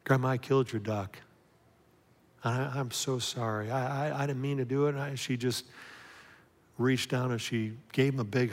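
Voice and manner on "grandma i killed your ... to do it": quivering voice. Retold or imitated. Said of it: "voice quivering".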